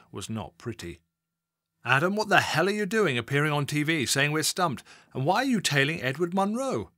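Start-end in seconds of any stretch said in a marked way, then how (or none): 1.9-6.9 irate senior officer, louder and higher; angry boss. Acted. Assistant chief constable berating Adam on the phone, furious. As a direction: bark down the phone at a junior officer.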